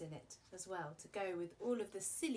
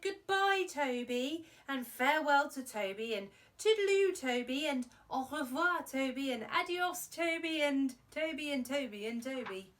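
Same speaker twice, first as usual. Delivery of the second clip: louder, higher string of farewells, fading at the end; cheery loud goodbyes; 5 semitones higher, 10 dB louder than usual. Acted. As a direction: call out each goodbye happily, then let it fade. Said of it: "I said".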